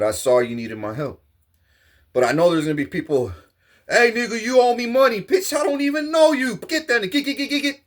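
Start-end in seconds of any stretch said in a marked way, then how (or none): 3.9-7.8 higher, rowdy street hustler demanding money; a rowdy hustler getting in his face; aggressive stranger. Acted. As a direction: play the pushy guy confronting him.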